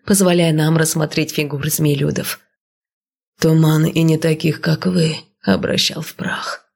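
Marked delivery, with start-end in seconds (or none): 3.4-6.7 serpent creature voice. Acted. Snake guard speaks.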